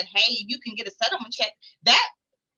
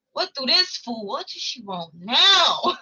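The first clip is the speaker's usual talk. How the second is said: mock annoyed, drawn-out muttered complaint; annoyed grumble; slower than usual. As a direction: roll your eyes at another call from her. Annoyed at caseworker calling again.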